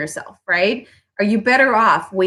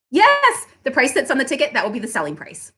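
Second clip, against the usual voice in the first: firm cheerful reply; 2 semitones higher than usual. Shown as a demonstration. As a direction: say it brightly, then close it down. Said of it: "Say it with me".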